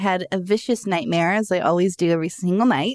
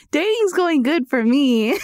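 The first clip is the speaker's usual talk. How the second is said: smug; 5 semitones higher, slower than usual. Real, not acted. Smug brag then laugh.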